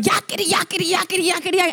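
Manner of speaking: lightly voiced creature chatter; squeaky creature. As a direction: imitate a pestering critter's jabber. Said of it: "making this ugly, squeaky".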